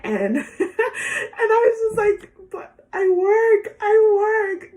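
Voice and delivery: high, slow, laughing protest; laughing disbelief. Retold or imitated. Nurse answering a drunk man, laughing in disbelief. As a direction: plead through laughter.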